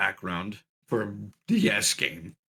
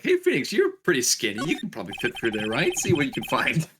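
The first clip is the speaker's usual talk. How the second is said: imitating Maya. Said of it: "Maya would have been like".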